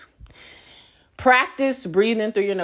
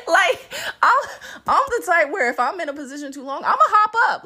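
laughing while talking; 8 semitones higher than usual. Real, not acted. Laughing through the telling.

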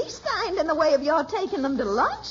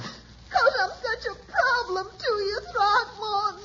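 tearful and wavering, near sobs; crying; 3 semitones higher than usual. Acted. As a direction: speak through tears, apologising. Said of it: "what are you crying about?".

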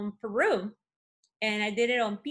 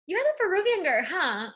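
imitating classmate; 7 semitones higher, 5 dB louder than usual. Classmate voiced in story.

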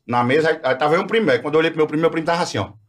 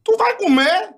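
incredulous question; 11 semitones higher, much slower than usual. Retold or imitated. Retold asking cousin in disbelief.

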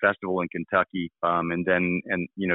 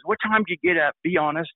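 higher-pitched imitated rock star; 9 semitones higher than usual. The rock star checking on the guitarist, imitated high voice. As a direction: quote him in a raised voice. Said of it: "he's like, he goes".

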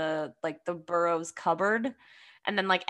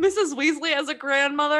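delighted gasp; 7 semitones higher, 6 dB louder than usual. Real, not acted.

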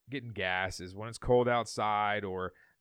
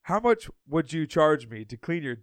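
a hint of an accent, slow and careful; slow, lightly accented question; slow stranger voice; 3 semitones higher, 3 dB louder, slower than usual. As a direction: lightly voice the odd stranger asking. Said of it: "He's like".

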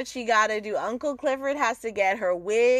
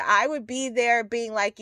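ordinary talk, nothing marked

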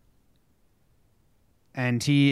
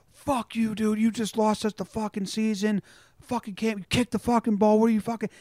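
higher, heated mock rant at a teammate; angry teammate rant; 7 semitones higher, 3 dB quieter than usual. Teammate in the clubhouse cursing out the kicker, angry. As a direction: snap at the guy who lost the game. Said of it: "one teammate vocalizes them and goes".

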